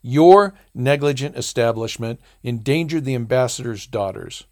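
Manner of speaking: a snarled, loud accusation; snarling. Acted. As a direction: snarl it in fury. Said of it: "He positively snarled".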